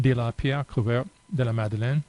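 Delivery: Dolmen de la Pierre Couverte de la Madeleine read in a shaky amateur French accent; poor French accent. Real, not acted. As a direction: try the French name the way an English speaker would. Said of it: "Apologies for my poor French accent".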